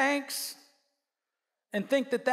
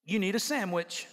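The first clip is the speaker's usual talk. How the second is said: dry God; 5 semitones lower than usual. Acted. God's dry answer.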